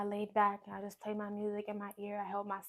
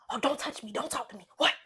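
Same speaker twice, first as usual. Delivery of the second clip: higher-pitched imitation of an irritated partner; irritated mock retort; 4 semitones higher, 4 dB louder than usual. Woman mimics her partner snapping at her in the car, irritated. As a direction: mimic someone brushing off a request.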